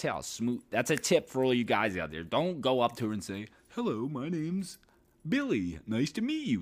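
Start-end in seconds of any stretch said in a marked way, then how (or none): 3.8-6.6 high, hammed-up stiff greeting; mock a cheesy guy introducing himself; corny pickup line. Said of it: "Don't do that corny shit".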